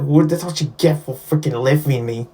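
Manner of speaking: a badly faked hint of Australian; terrible Australian accent. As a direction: try an Australian accent and miss. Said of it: "that's a terrible Australian accent".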